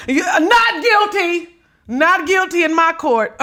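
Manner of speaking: slow, laughing mock judge ruling; laughing verdict. Real, not acted. Laughing judge pronouncing Tyler not guilty. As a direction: declare it like a giggling judge.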